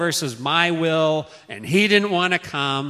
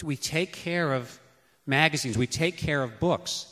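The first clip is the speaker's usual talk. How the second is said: patient teaching. Retold or imitated. Parent teaching child slowly.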